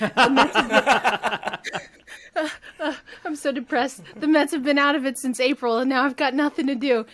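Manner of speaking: overdone self-pity, laughing; a mock wail of sports misery; hammed-up despair. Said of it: "I was like".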